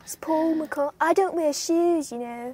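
playful impression of a famous musician, Liverpool accent; a famous singer. Introducing himself as a famous musician, in a mock Liverpool accent. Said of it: "I'll be Paul".

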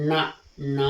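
teacher demonstrating నా with the tongue folded up, retroflex ṇā. Shown as a demonstration. Teacher shows pupils the retroflex నా, tongue curled up. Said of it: "నాలుక పైకి మడిచి చెప్పాలి".

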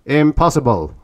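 loud, high bark of disbelief. A narrator's reading. Tanub rejecting Orn's claim, barked. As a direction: bark it out in flat denial. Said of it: "barked Tanub".

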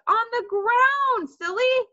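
high, loud, drawn-out retort; exasperated. A narrator's reading. Brother orders Sheila to search, exasperated. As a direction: spell out the obvious, slowly.

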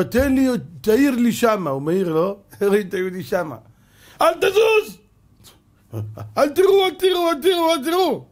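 high, loud barked commands; soldier shouting orders. Acted. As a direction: yell at the man not to move. Soldier spots the Jew, shouts. (צעקה של חייל, גבוהה וחזקה)

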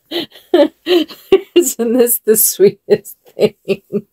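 slow words broken by giggles; can't stop laughing through it; laughing helplessly. Real, not acted. Cooing over a sweet doll outfit, giggling. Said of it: "I can't stop laughing".

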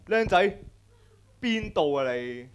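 a loud, slow street-tough hail; gang member's call. Retold or imitated. Gangster calling out to the boy at basketball, loud and rough. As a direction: bark it across the court like a triad guy. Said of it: "一班黑社會行埋嚟".

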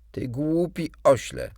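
loud, high furious snap; furious fairy insulting the boy; angry insult. Acted. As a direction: spit the insult out.

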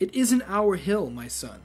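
a hint of a calm old priest; lightly voiced serene elder; Kung Lao voice. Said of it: "same Kung Lao voice for him".

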